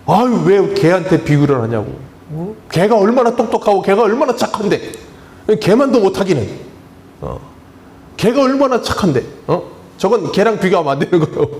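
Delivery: mock-indignant, defending dogs; a hammed-up dog owner protesting; indignant dog lover. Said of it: "애견인들은 뭐라 그런다고요".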